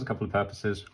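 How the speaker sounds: talking around a paintbrush; muffled, brush held in mouth; mouth full. Real, not acted. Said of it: "Sorry, I went quiet then, 'cause I just put my".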